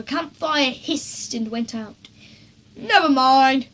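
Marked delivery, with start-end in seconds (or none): 2.7-3.7 brightly. A narrator's reading. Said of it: "said Dad brightly".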